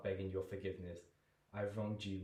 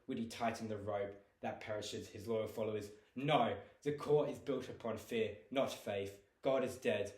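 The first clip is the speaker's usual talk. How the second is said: angry disdain. Acted. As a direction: spit contempt at the court. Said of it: "to anger and disdain".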